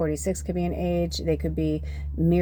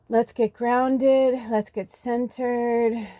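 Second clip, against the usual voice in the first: calm grounding; 5 semitones higher, much slower than usual. Real, not acted. Grounding before channeling.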